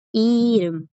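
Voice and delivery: "Irum" with a tapped R leading into U; sounded as R. Shown as a demonstration. Teacher sums up for students, "Irum" with R sounded. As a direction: let the R in "Irum" ring before the vowel. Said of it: "le permite sonar como una R".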